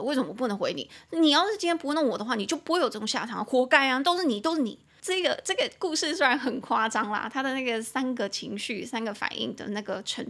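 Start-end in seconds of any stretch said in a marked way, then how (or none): 0.0-4.8 angry blaming. Retold or imitated. Story character blaming angrily.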